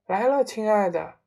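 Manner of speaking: calling back. Acted. Wife answers husband from the kitchen, calling back. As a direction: sing out a reply to another room.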